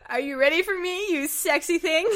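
hammed-up seductive purr; high cheesy come-on. The speaker's cheesy seductive line.

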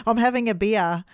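put-on a mild Australian accent on a child; kid's Australian accent. Host imitating a pupil in a light Australian accent. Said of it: "kids go".

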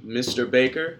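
trembling, nervous call into the dark; quivering voice. Acted. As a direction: ask it shakily, a little scared. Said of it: "he asked in a quivering voice".

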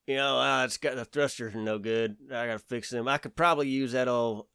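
hammed-up country mechanic; redneck voice. Space redneck voiced by speaker.

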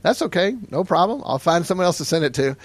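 retold friend's airy no problem; breezy dismissal. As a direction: brush it off cheerfully. Friend breezily takes money back.

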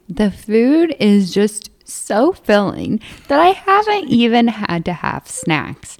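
slow, drawn-out proclamation, imitating a boast; mock announcing. Retelling a dieter's dinnertime boast, mock announcing. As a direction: imitate a self-satisfied announcement, stretching the words. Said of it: "And he announces to me".

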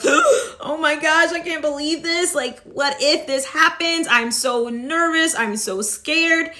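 breathless, fretful oh my gosh; mock anxious panic. To viewers, acting out dread before a scary task, mock panic. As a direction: play up the nerves like a mock panic. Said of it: "that same energy that you're feeling".

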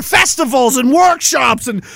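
mocking shouted sarcasm; mock government voice ranting; sarcastic. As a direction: sneer at the spending.

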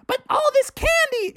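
high whining protest; greedy cub whine. A narrator's reading. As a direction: whine about the candy.

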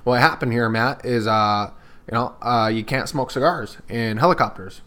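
a light take on the pilot's way of talking, lifting into his warning to put the cigar out; imitating Robert's voice. Pilot telling a celebrity to put out his cigar, lightly voiced. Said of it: "This is what he talked like".

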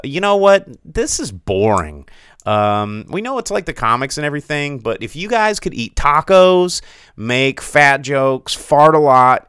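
hammed-up, punching each silly item; mock audience pitch. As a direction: pitch it like a fed-up moviegoer. Acted audience pitching dumber movies.

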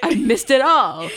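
slow, lightly voiced weepy father; mock tearful dad. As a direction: draw it out, mock-mournful. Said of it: "echoing dad's guilt".

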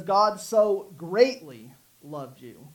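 slow, weighty "greatly"; "greatly" stressed and drawn out. Shown as a demonstration. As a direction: stretch "so greatly", then let the ending drop. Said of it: "what if we emphasize so".

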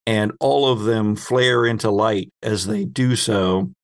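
ordinary delivery

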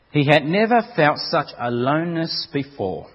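intense, building story read, cries in the dark; dramatic story reading. A narrator's reading. Preacher reading a hell story to the congregation, dramatic. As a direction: read it like a horror tale of the damned.

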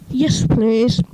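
scornful. Acted. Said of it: "he said scornfully".

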